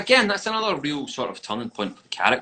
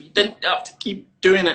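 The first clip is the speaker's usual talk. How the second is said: imitating the kid; 10 semitones higher, 8 dB louder than usual. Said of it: "he's like".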